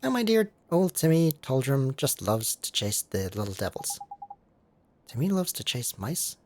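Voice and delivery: lightly voiced fussing older lady; a hint of a fond auntie; doting cat lady. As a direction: coo to the cat. Layla explains.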